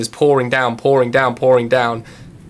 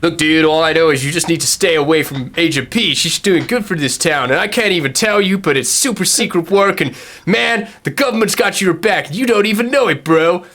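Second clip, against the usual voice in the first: laid-back dude; 4 semitones higher than usual. Acted. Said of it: "Scott's like".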